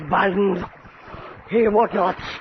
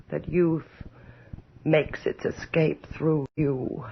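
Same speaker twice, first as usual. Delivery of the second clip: hushed musing; 5 semitones lower, 7 dB quieter than usual. Acted. Countess alone whispers fearfully to her looking glass. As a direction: murmur to your reflection as if afraid of the answer. Alone, addressing mirror in fear.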